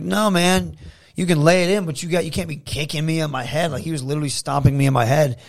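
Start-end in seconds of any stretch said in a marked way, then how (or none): 0.0-3.7 higher-pitched, exasperated objection; retold firm protest. Wrestler rejecting opponent's excuse, exasperated. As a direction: set him straight, voice raised.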